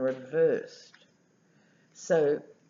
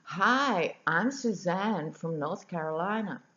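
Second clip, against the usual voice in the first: amateur imitation of a North Carolina Southern accent; broad Southern accent; 3 semitones higher than usual. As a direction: have a rough go at a Southern US accent. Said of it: "with the broadest southern accent saying".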